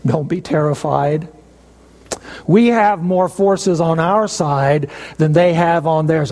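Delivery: the man of God very calmly said; calm reassurance. Retold or imitated. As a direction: soothe the frightened servant unhurriedly. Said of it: "very calmly said".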